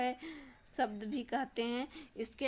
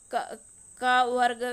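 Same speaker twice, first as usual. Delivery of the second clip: loud demo; 11 dB louder than usual. Shown as a demonstration. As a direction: call out the letter group loudly. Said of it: "teacher demonstrates letter group".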